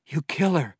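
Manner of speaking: rage-choked outburst; breathed in rage. A narrator's reading. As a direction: spit it out through tears of rage. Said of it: "she breathed".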